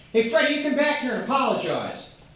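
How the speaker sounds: mild mock yell after the kid; half-hearted scolding shout; mom yelling. Mom calling Freddie back to apologize, mock yell. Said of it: "My mom yells after him".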